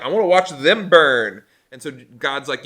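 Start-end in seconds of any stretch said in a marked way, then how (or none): 0.0-1.4 mock vengeful. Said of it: "He was like".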